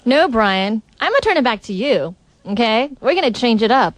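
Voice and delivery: flat monotone delivery; deadpan monotone, no lift. Real, not acted. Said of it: "What is up with your monotone attitude?".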